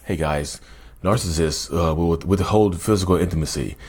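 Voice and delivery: lightly mocking a by-the-book therapist host; mock proper presenter. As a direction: parody a dull clinical YouTuber. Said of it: "They don't sound like me".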